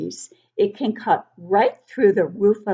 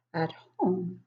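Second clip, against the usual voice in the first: soft whispered aside; 5 dB quieter than usual. Real, not acted. Reader telling children the safety tips, whispered. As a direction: drop to a whisper.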